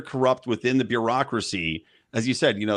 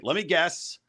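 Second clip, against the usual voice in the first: lightly voiced carnival barker; a hint of a fairground barker; 6 semitones higher, slower than usual. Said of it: "We're doing the carnival thing".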